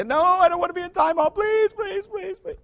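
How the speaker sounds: hammed-up pleading toddler; mock whiny daughter. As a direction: imitate a child faking tears. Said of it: "crocodile tears".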